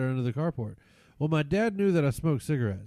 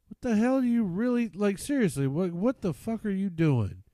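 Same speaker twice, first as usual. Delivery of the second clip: higher, exasperated dad voice; mock angry dad; 7 semitones higher than usual. Dad demanding what his son is doing, mock exasperated. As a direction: retell dad's disbelief, pitched up.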